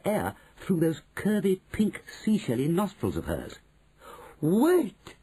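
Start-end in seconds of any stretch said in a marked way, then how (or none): 4.4-5.1 high, loud witch's cry; shout. Acted. Witch stops the others, high urgent shout. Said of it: "she shouted again".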